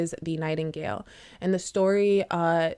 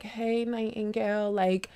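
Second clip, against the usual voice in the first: cooing. Retold or imitated. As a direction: coax the bird down sweetly. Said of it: "coo the nightingale down".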